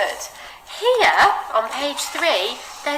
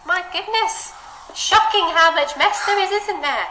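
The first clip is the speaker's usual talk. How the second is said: mock shock; 9 semitones higher than usual. Teacher mock shock at mess.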